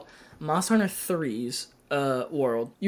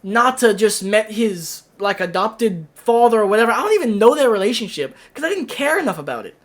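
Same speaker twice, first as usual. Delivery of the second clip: heated rant; 3 semitones higher, 3 dB louder than usual. Real, not acted. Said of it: "I'm getting heated about this".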